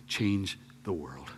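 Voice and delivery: slow emphatic echo. Acted.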